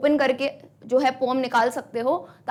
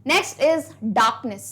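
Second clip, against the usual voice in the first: slow dictation; much slower than usual. Shown as a demonstration. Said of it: "चलिए".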